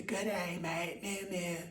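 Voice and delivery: high, soft kitten voice greeting; high cat voice. Pretend. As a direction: squeak it sweetly like a disguised kitten. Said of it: "And you'll say".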